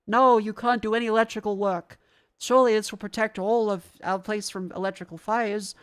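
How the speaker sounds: loud mocking of the rules; loud sarcastic jab; sarcastic mockery. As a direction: sneer at the rule makers.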